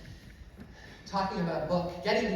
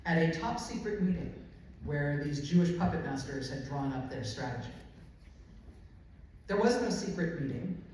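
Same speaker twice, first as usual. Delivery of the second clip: measured, emphatic nonfiction narration; deliberate public reading with pointed phrasing; book reading. Real, not acted. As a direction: read it aloud to an audience, weighting key words. Reads aloud from their book.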